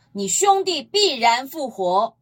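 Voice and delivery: 你兄弟必然复活 said slowly, each word weighed; slow, weighty quote. Shown as a demonstration. Preacher quoting Jesus to the congregation, slow and solemn. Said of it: "主耶稣再一次什么，把那个结果带出来了".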